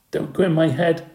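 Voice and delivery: put-on Andy shrieks at the babysitter; screamed. A narrator's reading. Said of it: "screamed Andy".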